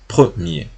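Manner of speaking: "Premier" con E muda breve y R francesa; pronunciación francesa. Shown as a demonstration. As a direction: di "Premier" tragando la E. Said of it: "una letra E sin acento". (ejemplo de E sin acento en francés)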